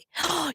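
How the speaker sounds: sharp gasp of delight; surprised gasp. Real, not acted. Streamer spotting a fan in chat, sharp surprised gasp.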